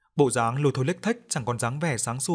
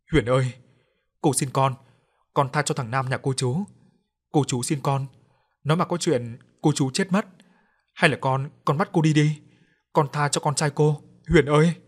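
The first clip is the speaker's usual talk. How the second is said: pleading, climbing louder to a cry; a mother begging for her son's life; Nam's mother begs the ghost, building to a cry; desperate begging; 2 semitones higher, 3 dB louder than usual. Acted.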